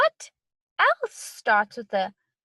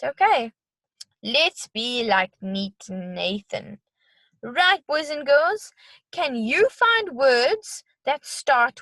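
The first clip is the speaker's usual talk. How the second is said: bright sing-song teacher voice; kids show host. Acted. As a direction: talk to little ones, cheerful. Teacher addressing young kids.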